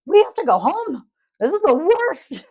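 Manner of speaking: high, loud mock wail; imitating husband's meltdown. Overwhelmed husband begging to leave Costco, mock desperate. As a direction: wail it out, dragging the last words.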